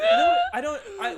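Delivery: high teary laugh. Real, not acted. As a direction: laugh it out through tears. Laughing, teary about boyfriend.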